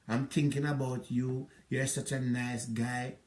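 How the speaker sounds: slow, sugary imitation of her sweet talk; slowed, honeyed take on her words; mock sweet phone voice. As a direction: lightly mimic her sweet-talking him on the phone. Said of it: "And the tone where you come on the phone".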